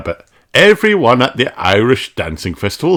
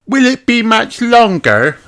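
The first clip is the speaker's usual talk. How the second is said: put-on high little girl pig, eager; young piglet asking, impatient; child's high eager voice; Peppa voice; 14 semitones higher, 4 dB louder than usual.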